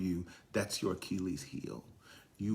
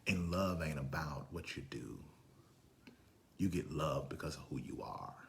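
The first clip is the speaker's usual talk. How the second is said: whisper; 5 semitones lower, 8 dB quieter than usual. Acted. Preacher drops to intimate point.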